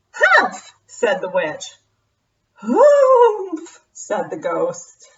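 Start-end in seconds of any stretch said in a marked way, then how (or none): 0.1-0.7 high, sharp huff; scoffing witch. Acted. 2.5-3.8 high, loud huff; scoffing ghost. Acted.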